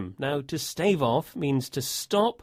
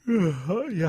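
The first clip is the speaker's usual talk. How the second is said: bored sigh; 4 semitones higher than usual. Acted. Acting bored at his desk.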